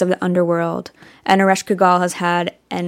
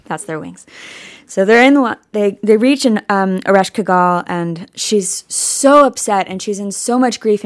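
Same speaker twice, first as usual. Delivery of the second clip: ordinary talk, nothing marked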